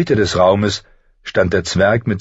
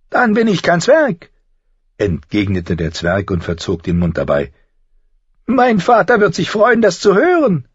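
higher, sly and needling; a higher, sardonic little man's voice; mocking dwarf Tyrion; 12 semitones higher, 3 dB louder than usual. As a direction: talk down to a would-be lord with cool mockery.

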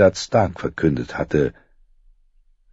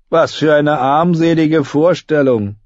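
put-on scornful young king; 8 semitones higher, 3 dB louder than usual. A narrator's reading. Joffrey sneers at old knight.

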